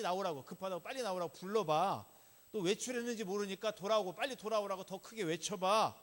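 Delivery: loud jeer, building in force; mocking taunt. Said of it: "완전 놀리고 있는 거죠".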